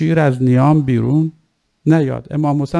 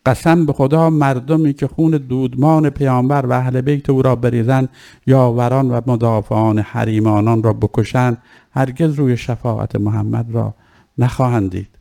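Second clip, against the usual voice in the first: put-on measured, lightly lowered recital of an old text; formal maqtal reading. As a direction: recite the ancient speech with solemn weight. Reading Zuhair's oath. (خوانش رسمی و آرام مقتل)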